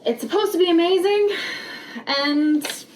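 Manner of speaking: muffled through a paper bag; talking with a bag over your head. Real, not acted. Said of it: "why the heck I have a bag on my head".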